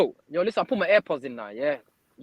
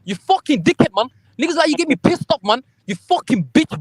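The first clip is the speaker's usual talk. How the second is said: angry insults; 2 semitones higher, 4 dB louder than usual. Real, not acted. Hurling insults in an argument.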